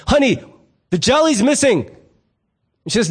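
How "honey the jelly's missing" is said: higher-pitched mock household holler; calling out to wife. Husband hollers to his wife about the missing jelly, calling out. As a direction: call through the house for help. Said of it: "you'll hear this a lot in my house".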